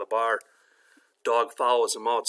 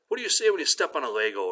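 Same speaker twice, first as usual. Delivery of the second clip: lightly acted, raised-pitch question to a dog; dog owner prompting; 5 semitones higher, faster than usual. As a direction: coax a trick out of your dog. Owner prompts his talking dog.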